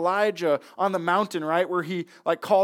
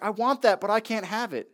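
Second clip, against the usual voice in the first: higher-pitched, lightly whining sulky king; mock tantrum whine; 3 semitones higher than usual. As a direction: play at a childish tantrum. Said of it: "he threw a temper tantrum and started crying".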